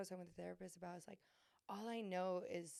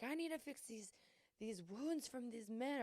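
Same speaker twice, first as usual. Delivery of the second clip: mock plea; 5 semitones higher than usual. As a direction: drag out the plea a bit dramatically. Retelling pleading to her therapist.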